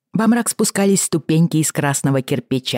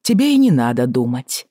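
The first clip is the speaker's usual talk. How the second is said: icy voice. Acted. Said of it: "ледяным голосом оборвал лорд Джон".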